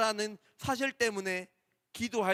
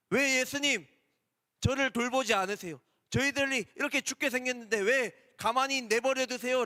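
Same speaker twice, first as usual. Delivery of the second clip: mock complaint; 3 semitones higher than usual. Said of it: "따지고 원망하는 거예요".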